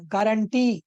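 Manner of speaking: गारंटी with a strong, drawn-out final TEE; stress on last syllable. Shown as a demonstration. Teacher showing end stress, गारंटी stressed on final टी. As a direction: land hard on the टी in गारंटी. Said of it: "double ई पे देते हैं".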